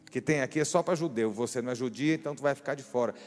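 scolding Jesus. Retold or imitated. Jesus brushing off the pleading mother, mock-scolding. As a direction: play it like a blunt, rude dismissal. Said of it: "Judeu fala brigando, fala grosso".

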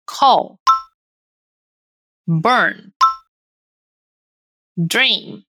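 "Call", "Burn", "Dream" one by one, endings voiced; repeat-after-me model. Shown as a demonstration. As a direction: isolate "Call", "Burn", "Dream" for a learner to echo. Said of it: "Mais uma vez". ("Call", "Burn", "Dream" pausados, com final vozeado)

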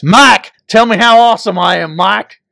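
loud call to Mike; playing Dale ordering Mike to praise him; mock Dale demand. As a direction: bark it at Mike, lightly voiced.

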